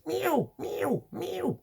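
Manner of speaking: high, desperate meowing like a panicked cat; frantic cat meows. Retold or imitated. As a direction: meow like a cat begging to be let in.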